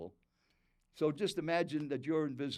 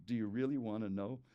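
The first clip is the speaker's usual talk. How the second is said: restrained irritation, lower in pitch; understated angry challenge; annoyed, angry tone; 4 semitones lower, 3 dB quieter than usual. Retold or imitated. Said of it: "annoyed, angry tone".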